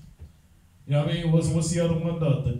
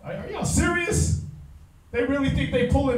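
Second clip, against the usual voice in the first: incredulous; 6 semitones higher than usual. Real, not acted. Incredulous at the British casting.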